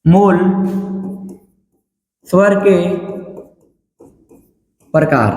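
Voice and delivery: word by word, long pauses between. Real, not acted. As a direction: dictate in separate, firm chunks. Dictating a heading to students.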